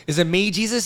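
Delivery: retold disciple's question, understated; imitated earnest question. Peter asking Jesus at supper, lightly acted question.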